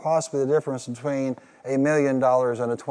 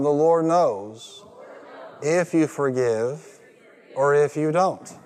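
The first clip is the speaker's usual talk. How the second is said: slow emphatic repeat; slower than usual. Shown as a demonstration. Preacher leads the congregation in a slow, weighty repeat. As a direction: lean on each phrase slowly. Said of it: "Say it one more time".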